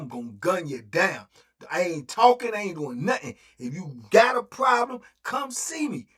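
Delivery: high, loud menacing shout; shouted threat. Retold or imitated. Threatening anyone in the pod, he shouts furiously. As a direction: warn them off with open menace.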